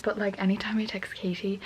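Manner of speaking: late-night whisper; hushed night-time vlog whisper. Real, not acted. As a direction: whisper so as not to wake anyone.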